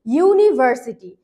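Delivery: ইউনিভার্সিটি said slowly as yu-niversity; slow model word. Shown as a demonstration. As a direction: spell out ইউনিভার্সিটি with a clear yu sound. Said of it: "যেমন".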